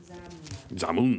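Zalmunna stretched slow and loud; drawn-out name. Acted. Reader hamming up a king's name: slow, loud. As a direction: belt out Zalmunna, slowly, every syllable.

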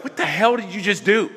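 high, loud furious demand; loud, high angry outburst; outraged. Retold or imitated. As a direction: yell at the friend who smashed the CD. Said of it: "I was like".

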